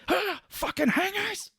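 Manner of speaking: high, slow whiny outburst while laughing; laughing, hammed-up fit; mock tantrum. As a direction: whine at the coat hangers. Imitating Cage flipping out.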